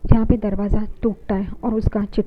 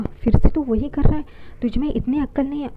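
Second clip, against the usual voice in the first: mildly angry telling-off, pitched higher; retold exasperated scolding; 4 semitones higher than usual. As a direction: scold in a raised pitch, without shouting. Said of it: "Renuka उस पर बहुत गुस्सा करती है". (हल्के गुस्से में, ऊँचे सुर में डाँट की नकल)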